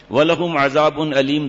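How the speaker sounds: slow, measured Arabic quotation; Arabic scripture recitation. Real, not acted. Preacher citing punishments for covering ankles, slow recitation. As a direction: draw out each Arabic word formally.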